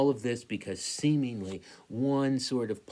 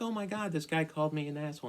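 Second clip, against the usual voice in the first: upset outburst; 7 semitones higher, faster than usual. Retold or imitated. Telling his wife, upset.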